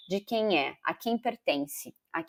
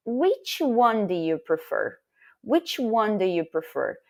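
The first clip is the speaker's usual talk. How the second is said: slow example question; slower than usual. Shown as a demonstration.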